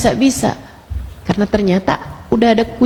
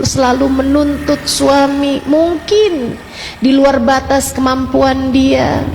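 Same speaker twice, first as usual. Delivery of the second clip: tearful confession; 3 semitones higher, slower than usual. Retold or imitated. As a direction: confess it like you're breaking down. Woman confesses at majelis, weeping.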